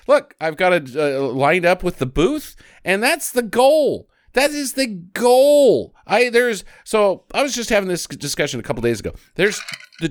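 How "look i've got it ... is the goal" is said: mock player voice. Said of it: "he's like".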